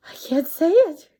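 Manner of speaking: high, loud giggling words. A narrator's reading. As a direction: giggle through the line. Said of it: "giggled the rhinoceros".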